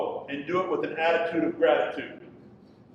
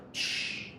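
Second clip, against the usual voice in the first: retold shush; 10 dB quieter than usual. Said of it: "took my water and went".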